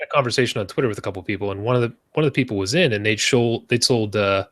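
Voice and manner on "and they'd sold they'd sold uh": tongue tripping over the words; slurred, stumbling delivery; slurring words. Real, not acted. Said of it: "I just keep slurring my words like a goddamn drunk".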